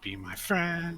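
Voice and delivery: high put-on pleading voice; high, wheedling mock begging. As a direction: push the mock entreaty well up in pitch. Playful plea repeated higher.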